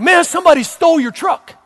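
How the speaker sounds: panicky, freaked-out, hyper, high-pitched blurt. Retelling how someone told him his truck was stolen, imitating him freaked out. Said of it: "he's like all freaked out and hyper".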